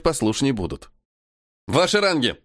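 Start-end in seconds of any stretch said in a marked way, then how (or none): 1.7-2.4 higher shout over gunfire; shouting orders over battle. Acted. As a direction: yell over the gunshots. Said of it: "Ору, перекрикивая грохот выстрелов".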